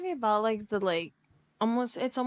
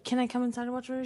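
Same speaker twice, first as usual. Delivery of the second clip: rushed guy pitch; 3 semitones higher, 4 dB quieter, much faster than usual. Retold or imitated. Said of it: "And he was like".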